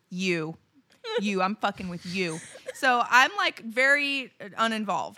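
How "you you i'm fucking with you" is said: low, soft menacing shark voice; single out your prey, low and quiet; predatory shark. Acted. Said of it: "the shark was like".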